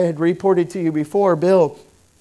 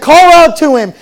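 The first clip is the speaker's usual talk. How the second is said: high, loud urging; urging call; 9 semitones higher, 10 dB louder than usual. Retold or imitated. Pastor urging Bill at the altar, loud. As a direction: push him to cry out.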